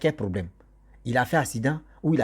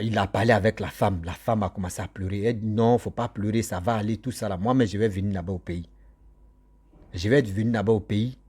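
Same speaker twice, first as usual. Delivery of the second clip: normal talking voice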